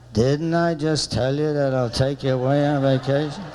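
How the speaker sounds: lightly voiced defensive husband; mumbling husband. Husband defending his vacation offer, mumbling. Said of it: "He sounds like this".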